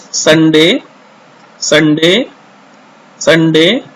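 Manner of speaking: slow Sunday, each ending on a rise; repeat-after-me drill. Shown as a demonstration. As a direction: model Sunday evenly for pupils, lifting the end. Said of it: "follow me". (Sunday धीरे-धीरे, दोहराने के लिए)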